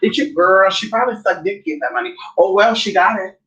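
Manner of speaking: high, bitchy gossiping; catty gossip voice. Retold or imitated. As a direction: gossip like a jealous hater. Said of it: "you're like".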